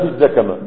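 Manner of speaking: الزكمة said with a-vowels, "zakama"; rejected active form. Shown as a demonstration. Teacher saying this form doesn't exist, active pronunciation. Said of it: "ما في الزكمة".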